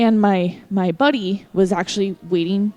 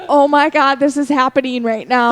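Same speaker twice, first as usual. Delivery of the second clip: retold giddy panic, raised and louder; freaking out; 3 semitones higher, 4 dB louder than usual. To herself as the musician gets close, freaking out. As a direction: start high, act out the freak-out. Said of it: "I'm kinda freaking out".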